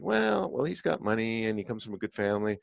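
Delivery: a light hint of a self-persuading inner voice; rationalizing brain. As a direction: talk yourself into it, airily. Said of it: "our brain is rationalizing".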